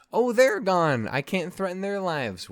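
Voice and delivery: hammed-up mock whine of the repeated reply. Retelling James's scheme, repeating the reply in hammed-up mockery. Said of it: "he goes like".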